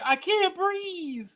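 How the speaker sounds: slow mock gasp. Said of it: "then you gotta say".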